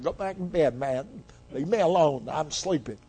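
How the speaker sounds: soft, lightly voiced sleepy old priest; mildly dismissive, quiet mock grumble; sleepy brush-off. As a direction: mutter it like someone half asleep. Eli woken up, voiced in story.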